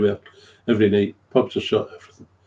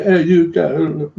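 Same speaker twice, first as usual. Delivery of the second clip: mock shout; 5 semitones higher, 4 dB louder, much slower than usual. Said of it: "Why are you shouting?".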